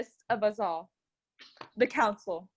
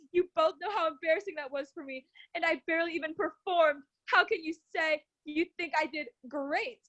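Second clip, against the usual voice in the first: infuriated; 5 semitones higher than usual. Acted. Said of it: "I screamed, completely infuriated".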